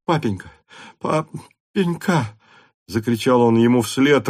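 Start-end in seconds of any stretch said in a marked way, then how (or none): 0.1-2.4 drawn-out high "папенька", slowly sobbed; sobbing plea. A narrator's reading. Son calls after his father, sobbing. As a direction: son begging forgiveness, near tears. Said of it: "рыдая".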